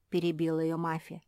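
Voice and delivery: ordinary delivery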